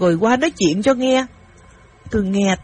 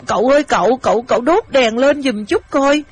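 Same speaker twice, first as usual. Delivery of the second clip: startled call for help, a little louder; 3 semitones higher, 3 dB louder than usual. Acted. Girl waking her uncle after bumping into a stranger, startled. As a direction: call out in mild alarm to wake someone. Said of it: "Tôi thất kinh".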